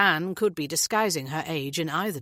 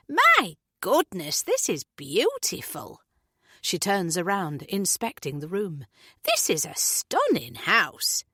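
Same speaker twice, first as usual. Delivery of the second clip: slow, admiring neighbour voice; gushing Julie; slower than usual. Acted. Julie admiring the house, slow and gushing.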